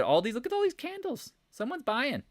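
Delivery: very high mock excited voice; retold excitement. Trader quoting what they said about the candles, mock excitement. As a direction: squeal it in mock discovery.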